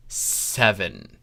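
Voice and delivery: plain reading voice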